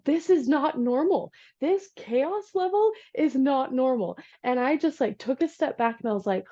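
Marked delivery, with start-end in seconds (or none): 0.1-4.2 slow, higher insistence on "not normal"; measured, deliberate weight on each word of "not normal"; emphatic. Retold or imitated. Insisting to the lady on call.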